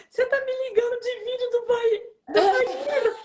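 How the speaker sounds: high voice laughing and tearful; laughing through tears. Retold or imitated. Coach laughing tearfully at the bathroom call. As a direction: laugh and cry the words.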